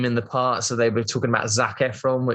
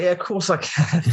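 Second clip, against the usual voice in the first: higher-pitched, over-eager yes; mock-confident bluff; 7 semitones higher than usual. Actor claiming he can do the accent, mock-confident. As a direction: bluff your way through, half laughing.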